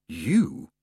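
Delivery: amused. Acted. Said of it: "as if the idea were amusing".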